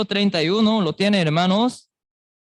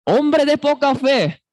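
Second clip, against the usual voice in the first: higher, sharp scolding voice; raised, reproachful rebuke; stern rebuke; 8 semitones higher than usual. Shown as a demonstration. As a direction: scold him like a stern parent. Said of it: "Seguro de este tono, de esta voz".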